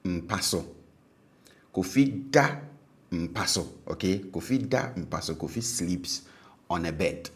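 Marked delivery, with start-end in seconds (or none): 1.7-2.6 DA on a raised, high tone; habitual high tone. Shown as a demonstration. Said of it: "on the habitual verb was high". 4.3-5.3 DA high in "Kofi da mpa so"; habitual high tone. Shown as a demonstration. Teacher gives the sleeps-on-a-bed example, DA high-toned. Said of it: "on the habitual verb was high".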